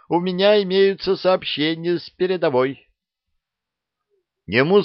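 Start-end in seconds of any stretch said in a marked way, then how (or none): 0.1-2.9 squeak. A narrator's reading. Shy lieutenant objects to Harry's mockery, squeaking. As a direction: squeak it out indignantly.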